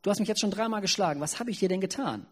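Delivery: höher und schneller, gekränkte Eselin; klagende Eselin. Acted. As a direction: spiel die verletzte Eselin, leicht angedeutet. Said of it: "die Eselin fragt". (leicht gespielte, klagende Eselin)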